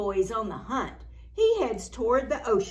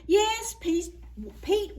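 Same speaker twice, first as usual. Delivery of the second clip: excited; 8 semitones higher than usual. A narrator's reading. Excited answer.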